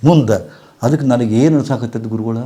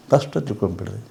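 ಸ್ಪಷ್ಟ said again much softer, rising at the end; quiet repeat; 3 semitones lower, 11 dB quieter than usual. Shown as a demonstration. Guru repeating his point to the audience: soft, rising echo.

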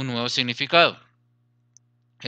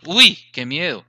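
mock fear; 5 dB louder than usual. Shown as a demonstration. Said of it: "sorpresa o miedo".

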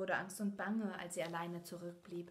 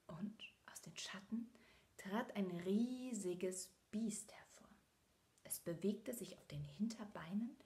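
hushed storytelling. A narrator's reading. Narrator reading a scary part to children, hushed and whispered.

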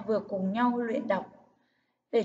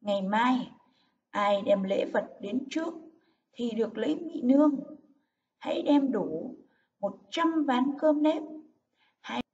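stately royal proclamation, gifts stressed; dignified king's decree read aloud; resounding, solemn. Shown as a demonstration. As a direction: proclaim it firmly, with pauses between items. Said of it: "đọc với giọng dõng dạc, trang trọng".

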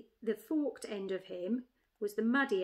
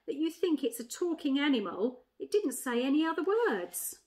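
lightly voiced jackdaw, higher and louder; incredulous jackdaw; 4 semitones higher, 5 dB louder than usual. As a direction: challenge the badger in disbelief. Jackdaw questions the badger.

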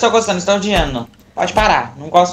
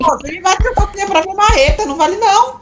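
laughing protest; 12 semitones higher than usual. Real, not acted.

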